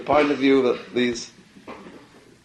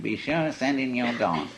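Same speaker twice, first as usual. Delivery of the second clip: corny radio preacher; 5 dB quieter than usual. Retold or imitated. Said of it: "that awful corny voice saying".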